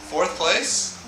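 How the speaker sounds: talking with a toothbrush in mouth; words round a toothbrush; while brushing teeth. Real, not acted. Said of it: "I'm brushing my teeth".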